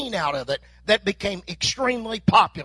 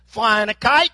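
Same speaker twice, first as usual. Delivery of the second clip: loud silly question; 6 dB louder than usual. Acted. Dumb question from passerby.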